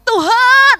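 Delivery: loud, high cry to God; impassioned retold yell; retold shout. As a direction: re-enact calling out to God at full voice. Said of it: "saya teriak".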